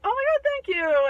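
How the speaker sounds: high, loud gushing thanks; acted child's delighted squeal; overjoyed little kid. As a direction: burst out with relieved gratitude. Rescued kid thanks the giant.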